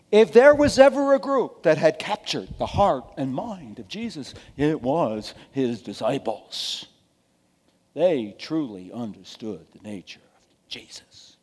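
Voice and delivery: drip sarcasm, dropping gradually to a near whisper; sarcastic. Real, not acted. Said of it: "I'm being sarcastic".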